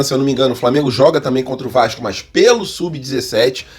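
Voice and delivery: ordinary talk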